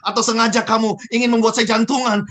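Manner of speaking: mildly heated mock accusation; accusing. Manager accusing a subordinate of doing it deliberately, acted accusing. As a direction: play a boss starting to blame. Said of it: "wah ini mulai nuduh nih".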